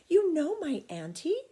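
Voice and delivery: put-on a little girl teasing her friend with news; eager question. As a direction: lean in with a secret. Child asks her friend.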